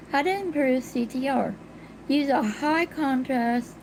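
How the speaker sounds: speaking without dentures; toothless. Real, not acted. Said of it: "I don't have my teeth in yet".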